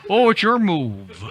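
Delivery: bored board-game player. Acted. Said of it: "my impression of someone playing Chinese checkers".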